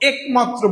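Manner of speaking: "একমাত্র" with a closed e, ek-matro; over-correct mispronunciation. Shown as a demonstration. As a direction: stress a pure e at the start of "একমাত্র", wrongly. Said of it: "অশুদ্ধভাবেই শুদ্ধটা উচ্চারণ করতে যান খুব strongly".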